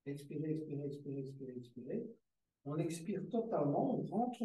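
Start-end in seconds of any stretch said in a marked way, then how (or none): 0.0-2.2 repeated, sinking softer each time; fading exhale cue. Shown as a demonstration. Yoga teacher guiding a long exhale, fading softer. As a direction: let the voice ebb away with the breath. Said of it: "des expirations les plus longues possibles".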